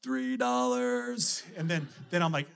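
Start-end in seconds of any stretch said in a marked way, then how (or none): 0.0-1.4 put-on high, drawn-out kid voice; imitated kids. Kids setting dad's fine, high and drawn out. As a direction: mimic a child stretching out each word.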